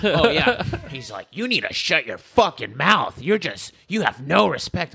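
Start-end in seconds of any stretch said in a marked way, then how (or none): 1.3-4.9 retold scolding. Fireman's angry rant, acted.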